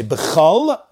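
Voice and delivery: b'chol slowly, closing on a held L; pause after b'chol. Shown as a demonstration. Teacher showing where to break, pause after b'chol. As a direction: draw out b'chol and stop. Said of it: "a pause".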